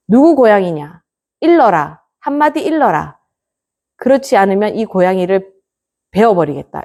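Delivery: stern master. Retold or imitated. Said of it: "이렇게 말합니다".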